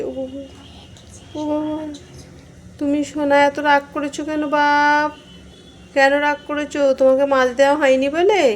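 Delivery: cooing to Chini about the fish she didn't get; cooing pet talk. Real, not acted. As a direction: coax the cat gently out of its sulk. Cooing to angry cat.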